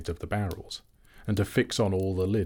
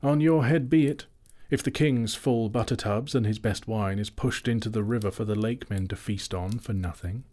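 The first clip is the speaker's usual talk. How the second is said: mocking warning; 3 semitones higher than usual. Elves warning butler mockingly.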